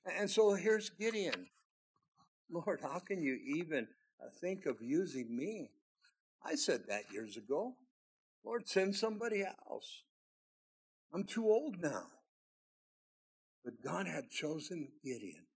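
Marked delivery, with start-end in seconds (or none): 2.5-12.1 softer, hesitant pleading to God; reluctant excuse. Acted. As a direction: shrink away as you beg off.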